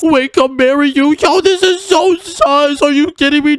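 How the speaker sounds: high, slow, stretched-out disbelief. Acted. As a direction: drag out the shock as if you can't believe the proposal. Asked to marry microwave.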